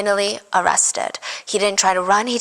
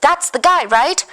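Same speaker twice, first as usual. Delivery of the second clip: much higher, eager mock dawning; mock realization; 9 semitones higher than usual. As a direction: act out an obvious aha moment. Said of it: "people would be like".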